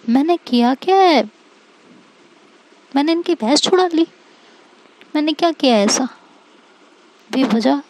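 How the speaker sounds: puzzled, mildly aggrieved thinking aloud; baffled protest. Acted. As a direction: wonder aloud what you did wrong. Character puzzles over friend's anger.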